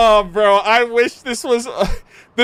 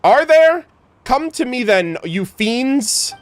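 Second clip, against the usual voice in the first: playfully squaring up to invisible fiends; mock challenge; 5 semitones higher, slower than usual. Merchant daring the tax collectors to come, hammed-up.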